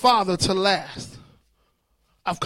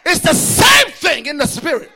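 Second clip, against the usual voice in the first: ordinary talk, nothing marked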